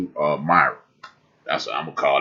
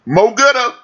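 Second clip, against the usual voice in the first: squeaky high voice; 7 dB louder than usual. Pretend. Playful high squeal of a phrase.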